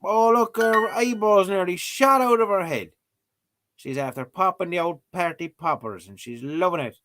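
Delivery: high, loud playful voicing of the result; mock announcer reading. Vlogger voicing the app's verdict in a high, excited voice. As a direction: gush over it like a gleeful host. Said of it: "Survey says".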